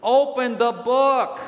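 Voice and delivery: slow, forceful, each word landed; emphatic rebuke. Acted. Preacher answers those who feel God never talks, emphatic rebuke. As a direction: hammer the order home slowly.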